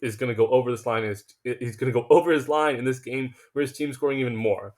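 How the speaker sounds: tripping over words, restarting; stuttering. Real, not acted. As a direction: stumble over the words eagerly. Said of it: "I'm stuttering over my words".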